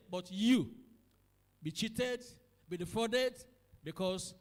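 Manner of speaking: loud, urgent sermon climax; full-force preaching. Acted. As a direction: preach it out to the congregation.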